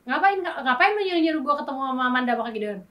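heated, lifted indignant complaint; angry retort. Retold or imitated. Wife retelling her angry reply to husband, heated. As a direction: accuse him of meddling. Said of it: "aku bener-bener dengan nada ini".

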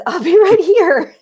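high, drawn-out cat voice; cat counselor. Acted. Cat left up in the tree, high slow voice. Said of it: "the cat, who's up in the tree still".

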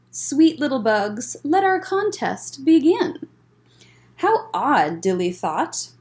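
lively storybook read-aloud; bouncy rhyming picture-book narration; reading to children. A narrator's reading. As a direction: read it like story time for kids.

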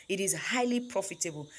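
"highly" picked out as the key word; stress on highly. Real, not acted. Repeating the point to new farmers, stress on "highly". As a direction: put the emphasis firmly on "highly". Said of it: "Emphasis on highly".

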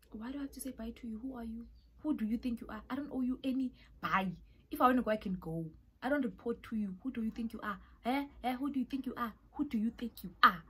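snapping back in her head, fed up; annoyed inner rant. Retold or imitated. Answering her roommate's texts in her head, annoyed rant. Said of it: "So annoyed".

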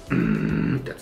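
low, quiet throat bass drone; throat bass hum. Shown as a demonstration.

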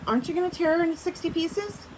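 reading a story aloud to the class; steady read-aloud for students; story narration. A narrator's reading. Teacher reading a storybook to her class, read-aloud voice.

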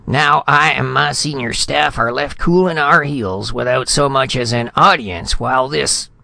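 indignant tirade, breaking off. A narrator's reading. Insulted ambassador listing grievances to Retief, high and indignant. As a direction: rant on in wounded dignity until words fail. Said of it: "Spradley's voice broke".

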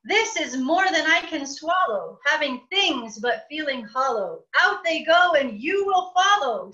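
rising angry outburst. Acted. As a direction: order the bird out, fuming. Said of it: "said I".

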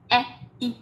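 E and I as two separate short sounds; separate vowels. Shown as a demonstration. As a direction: say "E, i" apart, evenly. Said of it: "Đọc nhanh này".

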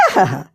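a low teasing aha-ha, tongue out; mocking aha. A narrator's reading. Wife mocking her husband with a low teasing aha-ha. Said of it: "জিভ ভেঙচে দেয়, শব্দ করে".

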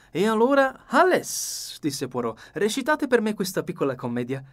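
the dapper detective, pleased with his plan; Poirot voice. A narrator's reading. Poirot starts the scene.

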